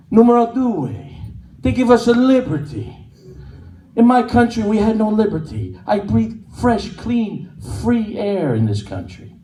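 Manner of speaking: lightly voiced Italian grandfather, high and proud; a hint of an immigrant grandpa praising liberty; mild Italian accent on a proud old man. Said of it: "He goes".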